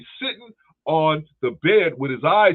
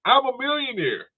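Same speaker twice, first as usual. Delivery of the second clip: mock boast; 10 semitones higher than usual. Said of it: "mocking the rich brother".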